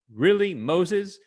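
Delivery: mock-bitter complaint, thick with sarcasm; sarcastic. Tired Israelites mocking Moses in the desert, sarcastic. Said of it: "It's a very sarcastic comment".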